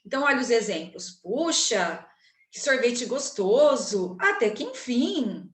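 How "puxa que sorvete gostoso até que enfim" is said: slow, lingering delight over the ice cream; exclamation intonation. Shown as a demonstration. Teacher demonstrating exclamation to students, slow delighted tone. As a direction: savour each word like a tasty treat. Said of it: "eu estou usando um tom de voz diferente".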